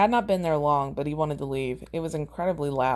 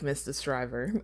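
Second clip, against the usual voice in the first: hushed, breathy whisper of the name; 6 dB quieter than usual. Acted. Madman judge whispering the prisoner's name. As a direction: whisper his name like a threat. Zsasz's menacing answer.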